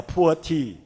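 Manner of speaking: "poor tea" in place of pu'er tea; "poor" as one English word, no y sound; mispronounced pu'er. Shown as a demonstration. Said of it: "with your typical intonation, it may become".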